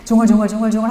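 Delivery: mumbling demo. Shown as a demonstration. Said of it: "이렇게 유대인들이 막 ... 중얼중얼".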